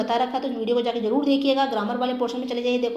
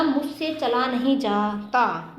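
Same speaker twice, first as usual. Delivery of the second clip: "मुझसे चला नहीं जाता" said slowly, word by word; slow dictation; much slower than usual. Shown as a demonstration. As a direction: dictate the answer slowly to the class. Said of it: "तो भाववाचक में आएगा".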